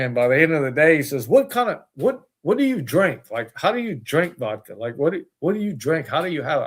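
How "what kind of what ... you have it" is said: frustrated. Retold or imitated. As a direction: imitate a fed-up mentor pressing for answers. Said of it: "he just got so frustrated with me".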